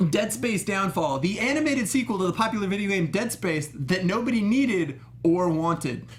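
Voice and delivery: slow, punchy announcer read. Acted. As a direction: boom it out like a fighting game announcer. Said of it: "I'm gonna put on my announcer voice".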